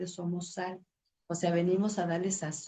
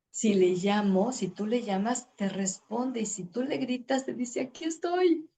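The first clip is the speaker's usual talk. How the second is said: builds from a strong call to a high, loud peak on estoy; rising fervor; 5 semitones higher, 4 dB louder than usual. Acted. Preacher to listeners, climbing from a strong call to a high, loud cry.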